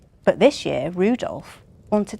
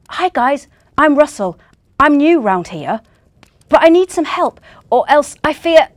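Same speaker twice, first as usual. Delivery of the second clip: eager new reindeer; 7 semitones higher, 9 dB louder than usual. Acted. Russell pleading with reindeer.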